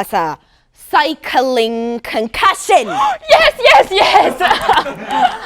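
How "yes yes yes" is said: excited. Acted. Psychic's guess proves right.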